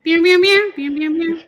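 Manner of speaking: high playful cat meows; meowing. Pretend. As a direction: meow like a cat. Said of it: "There he is".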